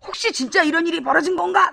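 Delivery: half-joking frightened whisper-like aside; mock scared. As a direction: imitate a gullible fan getting spooked. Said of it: "막 이러면서 겁나가지고".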